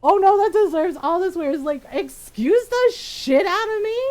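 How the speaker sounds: loud incredulous rant; can't believe it, furious; outraged disbelief. Real, not acted.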